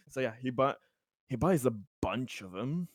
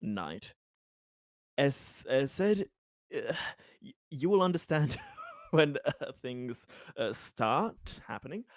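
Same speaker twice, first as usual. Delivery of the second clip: lightly voiced hesitant assurance; Conrad, placating. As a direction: reassure him haltingly, choosing words with care.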